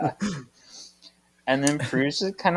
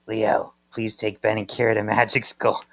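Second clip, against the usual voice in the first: slightly low, cartoon sister drone; a hint of a Simpsons sister voice; Patty and Selma; 3 semitones lower, 3 dB quieter than usual. Host reads Prue's request to Leo, sounding like Marge's sisters. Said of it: "I just sound like".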